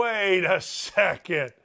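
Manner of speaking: hammed-up stunned husband stalling; mock disbelief. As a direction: stretch it out in mock alarm. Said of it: "makes you go".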